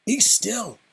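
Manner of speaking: urgent whispered order; whispered command. A narrator's reading. Inigo to the trembling Fezzik, a whispered command. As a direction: hiss the order without a voice. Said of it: "Inigo commanded".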